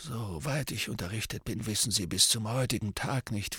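soft, lightly voiced old mentor; old wizard voice. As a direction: tell it gravely and quietly. Dumbledore's voice.

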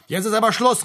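höher und lauter, genervt dazwischenrufen; genervter Ausruf. A narrator's reading. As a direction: dem Vorgesetzten genervt Einhalt gebieten. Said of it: "rief Frank, dem der Hauptfeld langsam gehörig auf die Nerven ging". (genervt gerufen)

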